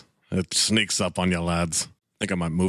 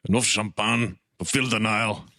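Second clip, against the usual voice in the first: mock accent, "champagne" as "sham-PAHN"; muddled put-on Scottish-foreign accent; Gal Gadot in Scottish. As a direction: attempt a film star's line in a Scottish accent. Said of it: "Gal Gadot champagne in Scottish".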